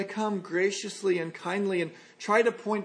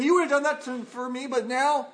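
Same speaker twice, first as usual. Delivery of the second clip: Paul's hurt plea; 5 semitones higher than usual. Acted. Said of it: "And Paul's saying".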